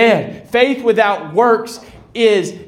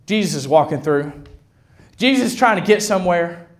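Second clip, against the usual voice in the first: crowd hushing a beggar; 3 semitones lower than usual. Acted. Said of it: "And the crowd said".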